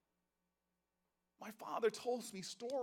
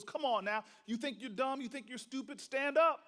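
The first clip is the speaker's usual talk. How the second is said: impatient teacher; 3 semitones higher than usual. Retold or imitated. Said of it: "she just stood there impatiently".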